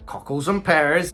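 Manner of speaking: light mock London accent; attempted Cockney accent. Reviewer mimicking the barber prop's London accent, attempted Cockney. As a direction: have a rough go at Cockney. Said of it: "kind of like a London accent".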